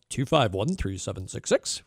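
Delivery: slipping lightly into a radio announcer's delivery; a touch of on-air polish. Real, not acted. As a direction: read the number out like a radio host. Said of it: "shipping to that radio voice".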